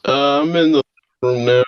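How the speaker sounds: echoey robot-like call audio; robotic distorted line. Real, not acted. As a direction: sound like a glitchy robot in a cave. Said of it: "Sound like a robot".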